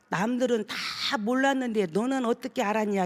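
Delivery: a hint of a demon hissing 남들은 다 몰랐는데; possessed man's sneer. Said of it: "입을 확 이렇게 삐죽거리면서".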